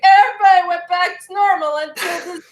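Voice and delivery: hammed-up retelling in a high pitch; mock storytelling. Mocking the next Dragon Ball arc starting up, high sing-out voice. Acts out the story restarting cheerfully.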